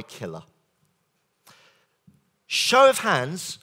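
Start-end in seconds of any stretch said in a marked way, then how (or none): 2.5-3.6 slow, loud call for hands; rally the room for a show of hands; louder, drawn-out call to the audience. Real, not acted. Trainer polling the audience.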